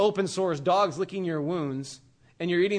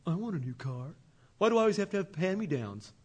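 whiny sulk; 4 dB quieter than usual. Retold or imitated. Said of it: "Or I can be like".

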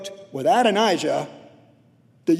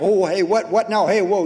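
louder, alarmed what now; startled over money; 4 dB louder than usual. Retold or imitated. Man hearing someone took his money, startled. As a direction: snap awake at news of money.

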